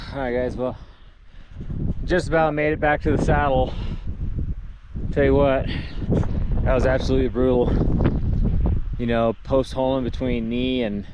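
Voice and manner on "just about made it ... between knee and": out of breath while trudging; trudging in snow. Real, not acted. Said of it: "that took a lot out of me".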